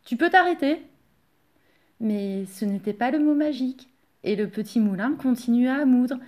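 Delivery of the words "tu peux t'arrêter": high, loud instruction; raised-voice permission to stop; calling a halt. A narrator's reading. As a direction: call it out to the mill. Yvon orders the mill to stop.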